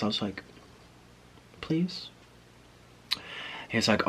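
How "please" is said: small, high, soft plea; sad puppy pleading. Retold or imitated. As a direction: beg softly like a sad puppy. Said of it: "sad puppy eyes".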